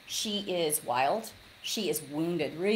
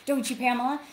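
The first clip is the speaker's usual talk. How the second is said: teasing dentist; 3 semitones higher than usual. Retold or imitated. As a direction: play the dentist teasing his patient. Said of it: "And he goes".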